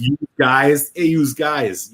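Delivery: "you guys" as "youse guys", Philly style; light imitation of a Philly accent. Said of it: "Philly is a very distinct accent".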